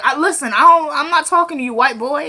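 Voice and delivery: high-pitched mock indignation; indignant refusal. Quita refusing to talk to Oscar, indignant. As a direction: act out shutting him down.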